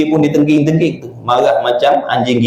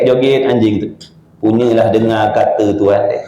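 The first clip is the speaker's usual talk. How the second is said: normal talking voice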